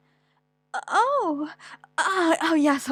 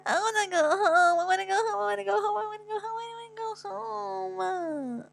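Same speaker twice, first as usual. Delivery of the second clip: whimpering cry; 9 semitones higher than usual. Acted. Child crying at the clinic, begging to go home. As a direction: wail it like a scared child, then trail off. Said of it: "Oh, no, no (cry)".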